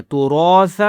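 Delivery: تُرَاثَ with a thick, rounded, long "raa"; heavy "ra". Shown as a demonstration. Teacher showing the thick letter, heavy "raa" in تُرَاثَ. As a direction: make the "ra" of تُرَاثَ full and heavy. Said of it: "را کو موٹا بھی کرنا ہے".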